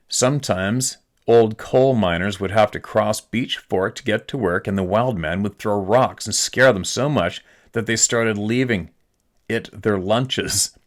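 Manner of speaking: slow, measured email narration; story read-aloud. Acted. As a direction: read the tale out slowly with long pauses. Reads out family legend from email.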